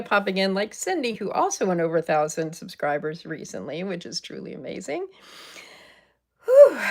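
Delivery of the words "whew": exhaled whew. Real, not acted. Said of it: "now I'm out of breath from all that celebration".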